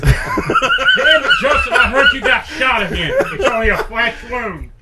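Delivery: high loud laughing Boston chief; a rough mock Boston accent; bad Boston accent. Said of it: "I don't have a good Boston accent".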